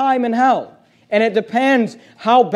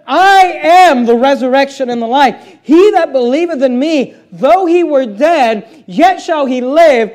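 preaching at full force; 3 semitones higher, 5 dB louder, slower than usual. Acted. Preacher quoting Jesus forcefully.

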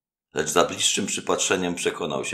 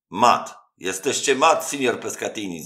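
much higher, loud gleeful cry of mate; chorus of shouts; 8 semitones higher, 7 dB louder than usual. A narrator's reading. The onlookers shout mate at the host, loud and gleeful. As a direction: onlookers whooping at the loss. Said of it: "zawołało kilka głosów".

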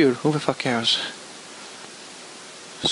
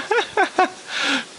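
sarcastic laugh; 5 semitones higher, 5 dB quieter than usual. Acted.

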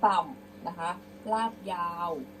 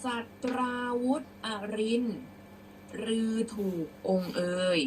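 raised opening, careful reading; prose-style recitation; 2 semitones higher than usual. Shown as a demonstration. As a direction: read out verse clearly for pupils. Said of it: "เดี๋ยวครูจะอ่านเป็นร้อยแก้ว".

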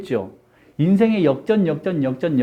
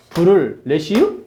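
deadpan Chungcheong pun; Chungcheong dialect. Shown as a demonstration. Teacher mistranslating bless you for laughs, Chungcheong dialect. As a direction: end it on a Chungcheong "-유". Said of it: "다시 충청도 버전으로 갑니다".

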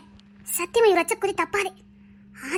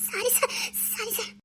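much softer, timid apology; meek apology; 9 dB quieter, slower than usual. Acted. Scolded junior apologising to his boss, meek and soft. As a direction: shrink back and barely say sorry.

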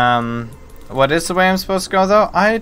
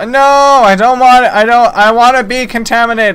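loud hammed-up protest; mock protest; 6 semitones higher, 8 dB louder than usual. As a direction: wail in mock outrage. Protesting decontamination.

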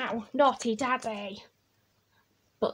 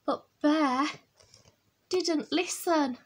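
put-on drawn-out, relished read-aloud for children; picture-book storytelling; 3 semitones higher than usual. A narrator's reading. Reading Bear's washing mishap to children, animated storytelling. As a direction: stretch the action words slowly for little listeners.

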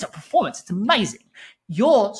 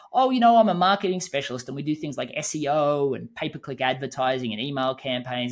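droning sales pitch; 4 semitones lower than usual. Acted. Acts out a dull networking pitch.

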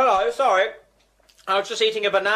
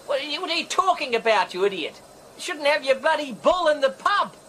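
higher-pitched exasperated scolding, without shouting; annoyed quarrelling; 5 semitones higher than usual. Acted. Brian argues with Trevor about the bull, exasperated. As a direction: tell him off down the phone.

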